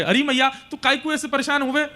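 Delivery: high-pitched, pleading little son; child consoling mother. Acted. Krishna clings to weeping Yashoda, high pleading reassurance.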